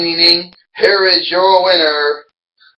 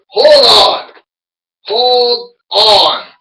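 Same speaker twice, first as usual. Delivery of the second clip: high shouted protest, said twice; loud interruption; 7 semitones higher, 4 dB louder, much slower than usual. Pretend. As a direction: cut in yelling. Angry wrestler interrupts the champion.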